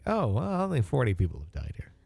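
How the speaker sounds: airy start, then rushed dismissive tail; mock nonchalance. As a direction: shrug it off like nothing, sarcastically. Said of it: "I can't imagine, you know, like".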